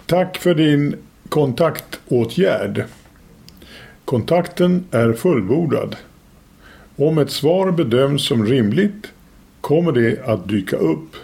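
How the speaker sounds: slow, deliberate reading of a form reply; formal read-out. Shown as a demonstration. Radio host reads his website's auto-reply aloud, slow and formal. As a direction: read it slowly and officially, word by measured word. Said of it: "läsa det själv".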